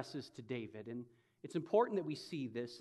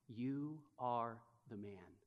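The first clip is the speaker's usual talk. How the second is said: hushed verdict; 4 semitones lower, 8 dB quieter, slower than usual. Acted. The accusation sinks in.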